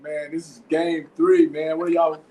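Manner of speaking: mildly heated mock scolding, rising in pitch; re-enacted exasperation, a touch indignant; retold irritation. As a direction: chew them out for over-celebrating, half in jest. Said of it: "I was kinda hot with you".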